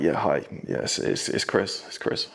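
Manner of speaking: hushed whisper into the house phone; embarrassed phone whisper. Retold or imitated. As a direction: whisper so the family won't hear. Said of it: "Why are you whispering?".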